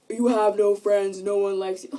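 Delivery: mocking the bullies. Scene: quoting the taunts at her to the viewers, light mockery. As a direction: sneer it like the kids who say it. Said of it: "the only thing someone can tell me".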